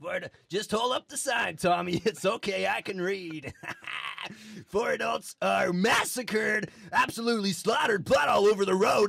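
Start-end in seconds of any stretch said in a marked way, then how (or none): 4.7-9.1 hammed-up news shout. Anchor sensationalizing crash news.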